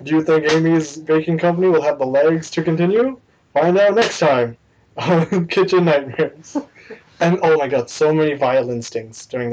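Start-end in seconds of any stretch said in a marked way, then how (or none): 0.0-6.6 mock TV cliffhanger voice-over; lightly hammed reality-show narrator; heavy narrator voice. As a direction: tease the next episode, slowing at the end. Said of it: "In that very narrator heavy voice".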